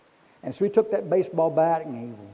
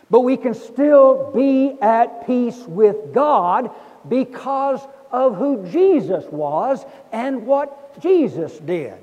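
preaching at full force; 4 semitones higher, 7 dB louder than usual. Acted. Preacher to congregation, on peace with God, loud preaching. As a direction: lean in and preach it out big.

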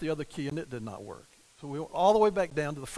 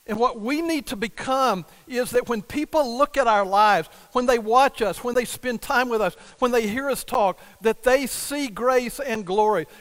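rising, louder preaching to the church; fervent preaching; 4 semitones higher, 5 dB louder than usual. Acted. Pastor urging the church to show grace, preaching with force.

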